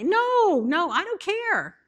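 high, loud insistence; firm rebuke. Acted. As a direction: put the flesh in its place. Preacher rebuking the flesh.

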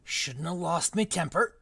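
a hint of Hagrid, rueful; lightly voiced gamekeeper regretting his temper. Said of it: "wrong voice for Hagrid".

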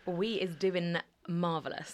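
playful London slang voice, drawn out; mock London accent. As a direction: put on a cheeky London accent for fun. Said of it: "I've got a London accent all of a sudden now".

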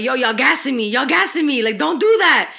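bashful hype at the praise; flattered hype. Retold or imitated. Telling live viewers to stop gassing her, flustered and loud.

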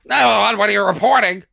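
slurred, sloppy operator line; mumbling drunk operator. Retold or imitated. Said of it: "What is this person, drunk?".

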